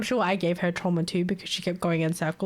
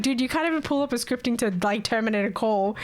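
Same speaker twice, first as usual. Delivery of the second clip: quoting coworker, laughing; 4 semitones higher than usual. Retold or imitated.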